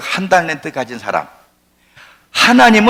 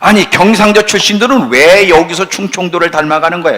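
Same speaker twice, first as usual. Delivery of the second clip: raised, high-pitched challenge; exasperated preaching; 5 semitones higher, 6 dB louder than usual. Real, not acted. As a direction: confront the congregation loudly. Preaches at full force.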